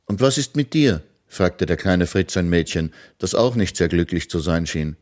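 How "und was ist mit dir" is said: put-on bright, raised boy's voice, proud news; eager little boy proclaiming; young hero announcing. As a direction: tell the children the wizard is dead. Fritz asks a girl.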